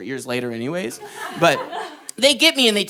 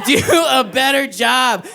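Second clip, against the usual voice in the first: loud slow mock shout; shouted, slow repeat; 6 semitones higher, 4 dB louder, slower than usual. Real, not acted. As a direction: bellow it slowly, higher and louder.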